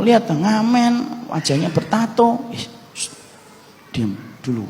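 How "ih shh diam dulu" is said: soft hushing, much quieter; hushed shushing. Retold or imitated. Wife hushing her husband at the warung, quiet shushing. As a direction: hush him quickly under your breath.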